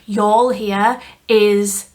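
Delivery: slow, drawn-out put-on Southern American Y'all Here; mock Southern drawl. Shown as a demonstration. Redoing the shade name to fit it, mock Southern drawl. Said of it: "doesn't sound right in a Yorkshire accent".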